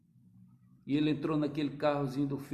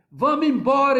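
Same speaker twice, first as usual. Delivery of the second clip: loud, higher yell; shouting; 8 semitones higher, 10 dB louder than usual. Retold or imitated. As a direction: demand to leave, yelled. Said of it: "ele gritava".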